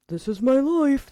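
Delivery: slow comic lament of a put-upon dog; resigned dog voice. Acted. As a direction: put on a long-suffering dog's voice. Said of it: "That's his voice to me".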